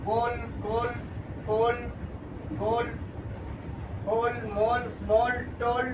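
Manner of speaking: গোল, ফোল, হোল, মোল each called out separately with dark L; word-list drill, dark L closing গোল, স্মল, টোল; dark L demo. Shown as a demonstration. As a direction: model গোল to টোল, tongue tip up on the final L. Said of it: "ডার্কেল বোঝাচ্ছে".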